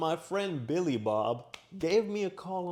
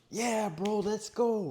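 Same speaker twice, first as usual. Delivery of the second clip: high-pitched mock enthusiasm; eager bro reply; 7 semitones higher, slower than usual. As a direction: play up a keen yes to a buddy. Imagined eager reply to friend.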